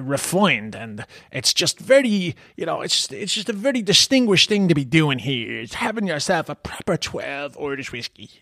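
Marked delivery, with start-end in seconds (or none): 5.6-8.3 hushed whiskey ad voice. Retold or imitated. Mimicking the refined whiskey ad.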